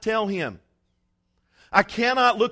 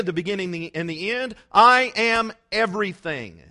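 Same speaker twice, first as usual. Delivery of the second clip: rising, emphatic declarations, punching each I; preaching at full force; 4 dB louder than usual. Acted. Preacher declaring God's names to the congregation, building fervour. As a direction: proclaim each title like a crescendo.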